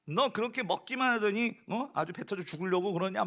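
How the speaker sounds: mock nagging rebuke; lightly acted exasperated telling off; shepherd mock-scolds the greedy sheep, exasperated; scolding. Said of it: "막 하면서".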